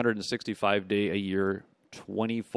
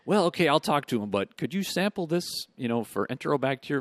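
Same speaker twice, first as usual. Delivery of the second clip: mock farmer asking; 7 semitones higher, 5 dB louder than usual. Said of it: "farmer voiced in story".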